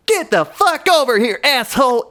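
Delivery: high, loud cartoon rage; raging Sonic. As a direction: yell it like a furious cartoon hedgehog. Sonic voiced raging at Tails.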